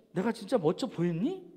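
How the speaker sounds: low, soft self-doubt; hushed, unsure response to praise; doubtful. Acted. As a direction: question the compliment timidly and quietly. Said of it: "의심하는 거예요".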